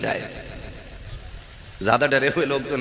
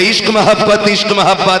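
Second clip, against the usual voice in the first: shouts इश्क मोहब्बत higher and louder, मोहब्बत hit hard; louder slogan call; 7 semitones higher, 5 dB louder than usual. Shown as a demonstration. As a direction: belt out इश्क मोहब्बत to whip up the crowd. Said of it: "और जोर से". (इश्क मोहब्बत ऊँची और ज़ोरदार आवाज़ में नारा)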